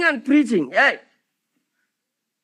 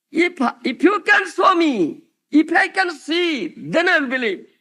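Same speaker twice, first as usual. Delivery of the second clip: shouted challenge; 4 semitones higher than usual. Retold or imitated. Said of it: "our motto is seeing is believing".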